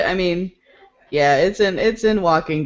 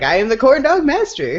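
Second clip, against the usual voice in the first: stated higher, plainly as fact; matter-of-fact; 8 semitones higher, 4 dB louder than usual. Shown as a demonstration. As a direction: announce it as simple fact. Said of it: "I was just like".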